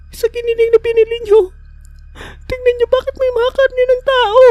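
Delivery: high-pitched Laika voice. Acted. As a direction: explain it in a shrill falsetto, anxious. Laika explains the rotten meat.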